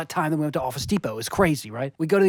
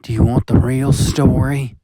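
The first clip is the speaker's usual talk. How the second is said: intense demanding; 3 semitones lower, 7 dB louder than usual. Acted.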